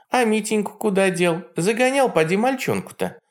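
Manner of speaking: high mocking old witch; Baba Yaga voice. A narrator's reading. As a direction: sneer like a jealous hag. Yaga asks.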